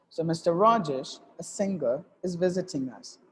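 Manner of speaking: short pause after "Mister Rajesh" and after "a singer"; phrased reading. Shown as a demonstration. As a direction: chunk it into three thought groups. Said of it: "that's the way you have to read it".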